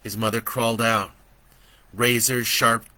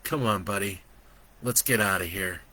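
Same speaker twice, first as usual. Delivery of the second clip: gentle comfort; 2 semitones lower, 3 dB quieter than usual. Acted. Joe comforts Brandon.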